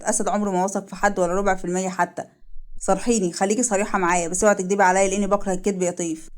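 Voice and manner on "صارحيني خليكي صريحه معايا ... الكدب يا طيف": slightly lowered, restrained appeal; a hint of a grave male character; lightly voiced earnest man. Man asking the woman not to lie, restrained and earnest. Asad demands honesty.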